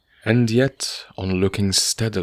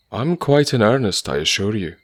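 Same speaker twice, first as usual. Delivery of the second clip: higher and louder, bright assurance; cheerful cry; 3 semitones higher, 5 dB louder than usual. Acted. Goldthorpe reassures the landlord, crying out cheerily. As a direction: insist happily that you mean it. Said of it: "cried Goldthorpe cheerily".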